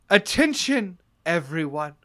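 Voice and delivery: booming call from the hallway; magically amplified voice. Acted. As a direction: project it down the hall. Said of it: "you hear a loud voice".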